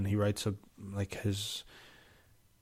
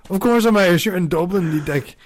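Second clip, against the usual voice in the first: indignant yell; 6 semitones higher, 3 dB louder than usual. Pretend. Arguing back in scene.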